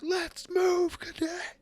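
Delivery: high, loud barked order; drill sergeant bark. Acted. Sergeant yells at Captain Plasmoid to move, barking. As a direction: bark it at the slacker. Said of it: "And he's like".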